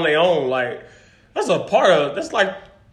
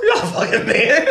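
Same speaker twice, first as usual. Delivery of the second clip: higher, breaking into laughter on You're not a fucking man; laughing tease; 4 semitones higher than usual. Acted. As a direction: say it through your own laughter. Teasing friend about living alone.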